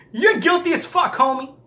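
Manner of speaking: laughing while calling him guilty; laughing accusation. Real, not acted. Mocking a liar, laughing while accusing.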